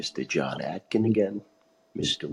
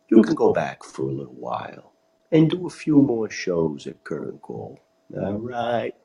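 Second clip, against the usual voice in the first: voice of God; 5 semitones higher than usual. Retold or imitated. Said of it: "hear him say".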